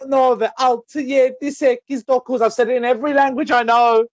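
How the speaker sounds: high, slow, over-the-top pleading; exasperated. Real, not acted. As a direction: beg them to finally answer. Exasperated repeat of the question.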